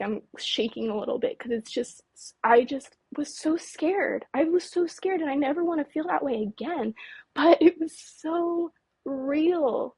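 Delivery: real lingering fear, slightly shaky; rattled, dragging out the intense words; shaking with fear. Real, not acted. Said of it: "you can hear it in my voice".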